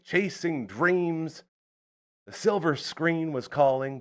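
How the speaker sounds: booming ring announcer intro; grand entrance announcement. Acted. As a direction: announce him like a big star. Introduces guest to studio.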